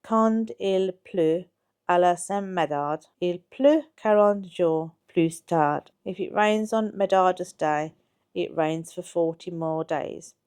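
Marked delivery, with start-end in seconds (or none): 0.0-5.9 put-on slow, careful French recitation of an old rhyme; unhurried reading of a French saying. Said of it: "The French rhyme is".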